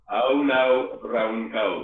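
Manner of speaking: South Wales accent with rolled r. Shown as a demonstration. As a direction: roll the R in brown. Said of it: "I like the way you rolled the R's".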